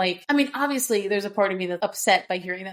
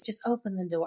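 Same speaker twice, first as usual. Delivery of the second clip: defeated; 7 dB quieter than usual. Retold or imitated. Nesta barely trying the locked door, defeated. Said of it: "she sounds so defeated".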